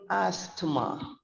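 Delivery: ASTHMA said with the T sounded, "AST-ma"; mispronounced asthma. Shown as a demonstration. Teacher shows the class the wrong way, ASTHMA with a spoken T. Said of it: "I have spoken it in a cor-, in a wrong manner".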